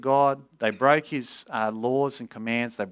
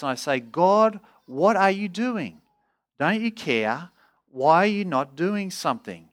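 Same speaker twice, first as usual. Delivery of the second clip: higher, drawn-out pleading; Habakkuk crying out; 4 semitones higher, slower than usual. Acted. Preacher voices the prophet challenging God about injustice, crying out. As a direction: plead with God in pained, insistent questions. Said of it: "Habakkuk is basically crying out to God".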